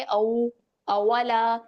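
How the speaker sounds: slow, drawn-out rounded-lip "औ, औवाला"; rounded lips demo. Shown as a demonstration. Teacher showing students how rounded lips make the "औ" sound, slow and drawn out. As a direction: stretch "औ" slowly through rounded lips. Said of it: "दोनों होंठों को गोल करेंगे".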